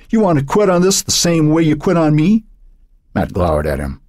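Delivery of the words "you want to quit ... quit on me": biting, mocking sneer, pitched up; a sarcastic jab at a friend. A narrator's reading. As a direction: needle him with scorn. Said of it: "his voice edged with sarcasm".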